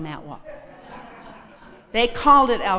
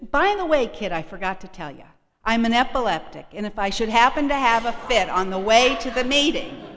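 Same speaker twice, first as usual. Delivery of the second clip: breezy Martha; 3 semitones higher, 5 dB louder than usual. Retold or imitated. Voicing Martha's casual warning.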